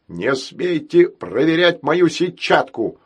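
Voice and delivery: slow, loud threatening yell. Acted. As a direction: bellow the threat. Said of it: "угрожающий вопль". (угрожающий вопль)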